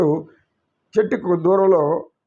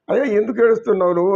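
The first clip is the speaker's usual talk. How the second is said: urgent call; 4 semitones higher, faster than usual. Acted. Friends call to crying stranger.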